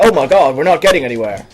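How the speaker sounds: mock-dramatic American accent. Parodying Americans shocked at being stuck, American accent. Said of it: "when Americans say it, it's always like".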